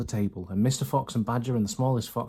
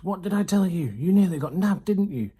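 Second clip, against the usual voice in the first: high, loud scolding squeal; shrieking rat; 7 semitones higher, 5 dB louder than usual. A narrator's reading. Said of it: "Rat stood high on his shelf and shrieked".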